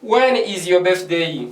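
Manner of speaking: slowed-down model question for the class; slow model read. Shown as a demonstration. Teacher slowly models the question for French-speaking students, slow and clear. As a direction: say it slowly so students can copy. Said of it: "j'ai dit".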